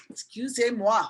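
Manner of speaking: Excusez-moi said the French way, skew-zay-mwah; a playful French excusez-moi; French excuse me. Shown as a demonstration. Teacher apologizing in French after a cough. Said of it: "Excuse me".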